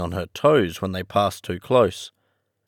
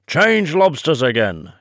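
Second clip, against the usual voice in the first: mild storybook yell, higher; acted yell without full force; 7 semitones higher, 4 dB louder than usual. A narrator's reading. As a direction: yell it out at a higher pitch, held back. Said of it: "yelled the Griffin at the top of its voice".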